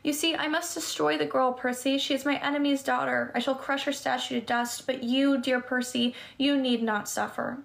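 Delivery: coaxing, lightly sweet; comforting purr. Acted. Medusa coaxing Percy to look up, comforting purr. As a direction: lure him gently like a grandmother. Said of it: "modulated back to a comforting purr".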